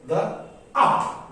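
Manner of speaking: unstressed "The" followed by stressed "up"; two-beat demo with "up" as the beat. Shown as a demonstration. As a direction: lean on "up" after a light "The".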